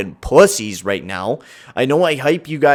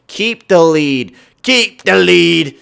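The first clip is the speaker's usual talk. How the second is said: slow, louder pleading; tense urging; 4 semitones higher, 6 dB louder, slower than usual. Real, not acted. Gamer pleading with his team to keep the lead, tense. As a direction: beg the team to hold on.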